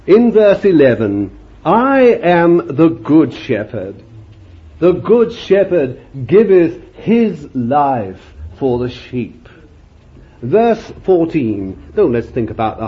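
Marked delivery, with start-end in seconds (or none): 1.6-9.5 slow, weighty reading of scripture; preacher reading Jesus' words, slow and solemn. Acted. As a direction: intone each word like holy writ. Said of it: "He talks like this".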